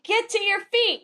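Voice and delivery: high-pitched call to rise; rally the fallen like a bugler; acted rallying cry. Horn blower rallying the fallen.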